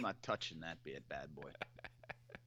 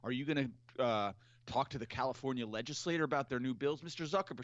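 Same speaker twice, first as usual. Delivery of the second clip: pushy reporter; 4 semitones higher than usual. Retold or imitated. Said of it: "the CNBC reporter's like".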